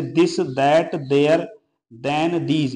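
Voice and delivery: "this", "that", "there", "then", "these" opened with a dental d; TH as D sound. Shown as a demonstration. Teacher showing learners TH in "this" said as a dental d. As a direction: list each word with a dental d for TH, as in "that". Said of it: "दे कर रहे हैं".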